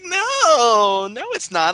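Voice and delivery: high, loud insisting no; mock old lady insisting. Churchgoers denying his name, high insistent voice.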